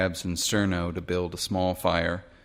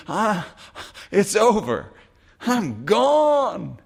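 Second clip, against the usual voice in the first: rising high and louder into a giddy cry; ecstatic release; 10 semitones higher, 4 dB louder, slower than usual. A narrator's reading. Soldiers imagining the freedom bird, high elated cry. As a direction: let it soar upward as the weight lifts.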